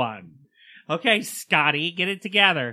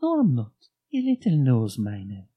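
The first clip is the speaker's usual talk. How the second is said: Mrs Doubtfire voice. Pretend. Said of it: "You're doing Missus Doubtfire".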